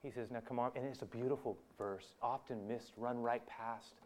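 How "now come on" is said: soft, coaxing voice; gentle. Acted. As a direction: ease them along quietly. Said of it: "Jesus very gently at first says".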